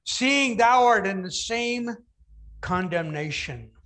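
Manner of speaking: slow, solemn scripture reading; King James reading. Shown as a demonstration. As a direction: read the old words slowly and gravely. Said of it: "the other answering rebuked him".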